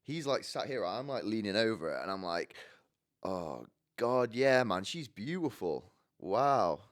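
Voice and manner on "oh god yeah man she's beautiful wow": backpedalling with overdone admiration; put-on approval, tailing off; lying compliment. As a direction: cover a gaffe with faked praise. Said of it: "I kinda just completely lie".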